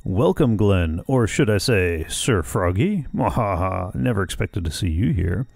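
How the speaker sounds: a hint of a gloating villain. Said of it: "try to do that justice".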